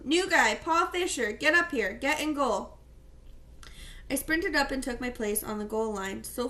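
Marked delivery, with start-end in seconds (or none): 0.1-2.8 coach yelling. Acted. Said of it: "The coach yelled down".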